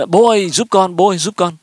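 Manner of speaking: mild mock yell; imitated child's cry. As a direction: call out like a kid in trouble, lightly acted. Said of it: "Nó la lên".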